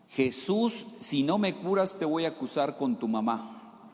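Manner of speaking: put-on high childish cry to Jesus; a little boy calling out, high and pleading; child yelling. Sick child shouting at Jesus in the crowd, high-pitched. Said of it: "el niño le empezó a gritar".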